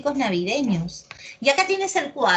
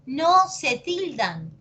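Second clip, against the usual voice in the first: "No se tildan" drawn out, higher pitched; slow emphatic repeat; 4 semitones higher, slower than usual. Real, not acted. Teacher drilling a rule into students, slow and emphatic. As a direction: spell out "No se tildan" slowly, word by word.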